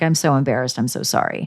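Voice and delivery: soft, breathless whispered apology; sheepish whisper. Retold or imitated. Jason quietly apologizing, a sheepish whisper. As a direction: mumble it out, mortified. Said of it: "He's like".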